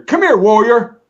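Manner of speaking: loud, high bark of a summons; barked call. Retold or imitated. Sergeant shouting at a passing soldier, loud bark. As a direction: call him over with a sharp shout. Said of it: "all of a sudden I hear".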